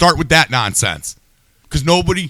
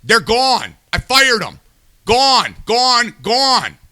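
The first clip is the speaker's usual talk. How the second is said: mock Trump; 7 semitones higher, slower than usual. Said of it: "and said".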